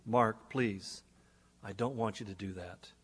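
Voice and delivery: gentle pleading. Retold or imitated. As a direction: gently beg him not to, softly. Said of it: "very quietly, almost in a whisper-like tone, soft and gentle, in a pleading voice".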